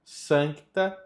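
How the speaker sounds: "Sancta" with an audible K before the T; don't swallow the C in "Sancta"; sounded C. Shown as a demonstration. Teacher showing that this C must be said, careful demo. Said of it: "Esse C precisa ser dito".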